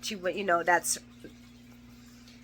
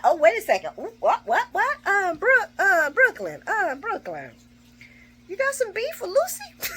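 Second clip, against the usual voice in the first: high, giggly, egging on the drama; gleeful laughing; 11 semitones higher than usual. Retold or imitated. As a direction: stir the pot through laughter. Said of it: "I'm like".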